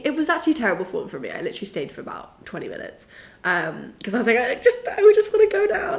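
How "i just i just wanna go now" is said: impatient excited. Retold or imitated. Desperate to leave the picnic.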